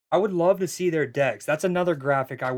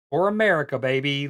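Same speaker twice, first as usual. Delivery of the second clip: patriotic hype; 3 dB louder than usual. Acted. Patriot card played, hype.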